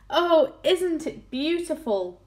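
high, drawn-out wonder; delighted cry. A narrator's reading. Crew on top of the rising peach, delighted cry. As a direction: exclaim slowly in high delight. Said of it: "they cried".

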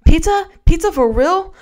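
squealing high and loud; excited. Acted. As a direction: kids thrilled about pizza. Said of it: "The room buzzed with excitement".

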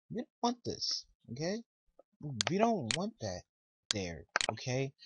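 wag a finger at the screen, okay?; mock scolding. Real, not acted.

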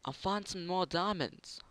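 a hint of a goofy character voice while mining; odd put-on voice. Player to viewers, a light goofy put-on voice. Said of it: "I don't know why I'm speaking like this".

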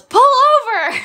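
sudden high shout to pull over; yelled order. Retold or imitated. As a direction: yell it like mom spotting the sunset. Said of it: "She just yells at me to pull over".

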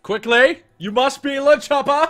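high, loud urgent yelling; excited shout. Real, not acted. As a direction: shout it at your friend. Urging partner to pick character.

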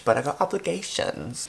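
ordinary talk, nothing marked

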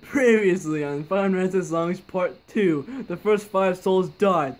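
trailer narrator intro voice; previously on recap. Acted. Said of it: "There, I got it right".

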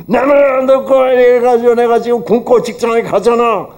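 husband griping about going to work hungry; aggrieved complaint. Retold or imitated. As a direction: grumble like a wronged husband. Acted grumbling husband complaint.

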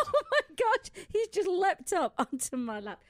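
very high, loud squeal; startled and delighted shriek; laughing surprise. Real, not acted. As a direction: exclaim as if suddenly jumped on. Dog leaps onto her lap.

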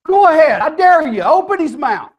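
high, forceful mock challenge; loud dare. God dares Job to open Leviathan's mouth, loudly.

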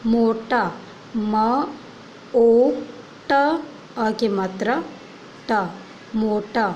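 ओ spelled out sound by sound; sounding out words. Shown as a demonstration. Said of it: "सबसे पहले".

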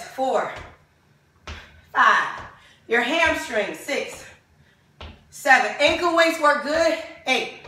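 breathless counting; out of breath. Real, not acted. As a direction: count while winded from exercise. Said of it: "I'm out of breath".

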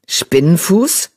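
slow rising „Spinnenfuß?“; surprised echo. Acted. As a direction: drag out „Spinnenfuß?“ in disbelief. Echoes a name in disbelief. (verwundert fragend „Spinnenfuß?“)

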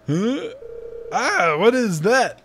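high, slow startled question; surprised. Real, not acted. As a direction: react like something just moved. Surprised at robot.

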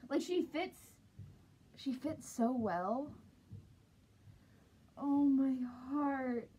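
muffled inside mascot head; speaking inside fursuit head; through a costume head. Real, not acted. Seen 0: Full costume head covers the speaker's face throughout the labelled words.

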